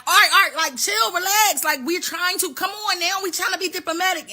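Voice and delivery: high, mock-nervous calming; America trying to cool Iran down, hammed-up and high; nervous placating. America voiced pleading calm.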